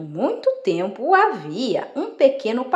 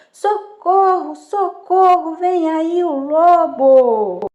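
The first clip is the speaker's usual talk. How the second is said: high, loud, drawn-out plea for help; desperate shouting; 7 semitones higher, 5 dB louder, slower than usual. Acted. Shepherd boy seeing the wolf approach, shouting desperately. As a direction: cry out high and slow as if desperate. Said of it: "começou a gritar desesperado".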